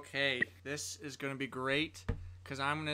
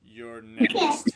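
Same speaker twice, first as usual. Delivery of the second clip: higher, louder threat with a pointed finger; 9 semitones higher, 9 dB louder than usual. Pretend. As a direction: call out the next target, loud and high. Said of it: "point my finger and say".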